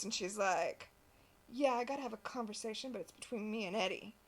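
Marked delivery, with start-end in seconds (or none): 1.5-4.2 lightly voiced hard-boiled noir dame; noir detective. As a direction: toss off a tough noir line. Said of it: "right into her noir voice".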